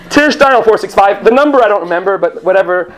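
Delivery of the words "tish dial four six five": lightly raised paging voice; walkie-talkie page. Acted. Counter agent pages Tish again, walkie-talkie voice. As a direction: page a coworker by radio, a little high. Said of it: "she goes".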